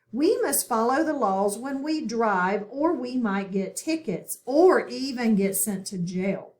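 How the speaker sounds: put-on steady read-along pace for children; reading aloud with class. Shown as a demonstration. Teacher reads the story aloud for students to follow. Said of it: "Read with me as I read out loud".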